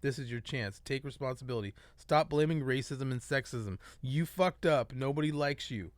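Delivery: measured reading of a manifesto; letter read aloud. Acted. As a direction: read the open letter point by point.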